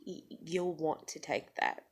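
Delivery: low, very soft, held-back voice; quiet warning. Retold or imitated. Worker handing the phone to the manager, quietly restrained.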